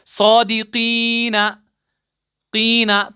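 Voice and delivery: सौदीकीना spelt out slowly, कीना said again; slow careful reading. Shown as a demonstration. Teacher points out the last letters, reading slowly. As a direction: read सौदीकीना slowly, then repeat कीना. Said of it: "इन तीन हुर्फों पर अपनी नजर डालिए".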